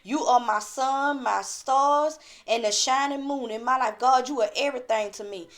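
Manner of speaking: heartfelt appeal to the Father; humble pleading prayer. Shown as a demonstration. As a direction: plead with God as a model prayer. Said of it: "you got to go to God like that".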